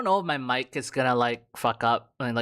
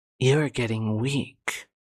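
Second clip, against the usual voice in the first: spoiled, bratty villain character voice. Reading a villain character's lines: bratty villain voice. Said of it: "you got kind of a bratty villain kind of voice".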